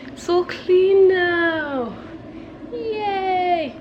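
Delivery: excited. Real, not acted. Proudly shows clean house.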